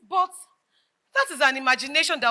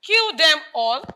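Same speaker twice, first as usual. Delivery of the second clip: slow, laughing echo of the words; laughing disbelief; 3 dB louder, slower than usual. Acted. Laughing at friend's extreme claim.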